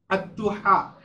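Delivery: দুহা with the h from mid-throat; deep-throat h. Shown as a demonstration. Teacher modelling for students, দুহা with a heavy throaty হা. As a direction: sound the হা in দুহা from the middle of the throat. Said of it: "বড় হা উচ্চারণ করা হয়েছে".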